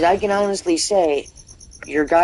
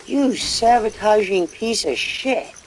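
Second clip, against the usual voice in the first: mock angry insult; 6 semitones higher, slower than usual. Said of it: "you're like".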